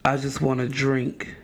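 measured, solemn poet's recital; Maya Angelou. Acted. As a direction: recite it low and unhurried, with weighty pauses. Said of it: "in my best Maya Angelou voice".

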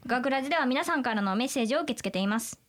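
a plainly read sentence in Kansai accent. Shown as a demonstration. Asked to say the podcast line in Kansai dialect, Kansai accent. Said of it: "じゃあ関西弁で言って".

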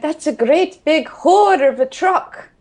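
Scottish lady's saying. Retold or imitated. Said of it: "she just turned around and went".

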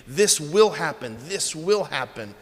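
WILL leaned on in each phrase; stress on WILL. Shown as a demonstration. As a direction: repeat it, landing on WILL. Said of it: "the word will occurs so many times".

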